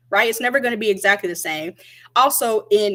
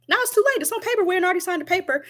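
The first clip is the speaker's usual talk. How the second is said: exasperated; 9 semitones higher, faster than usual. Real, not acted. Exasperated retelling, high pitch.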